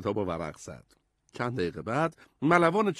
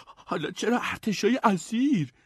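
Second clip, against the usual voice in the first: hesitant mumbled question; 10 semitones higher than usual. A narrator's reading. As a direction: hem and haw, then ask. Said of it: "ادموند منمن کرد".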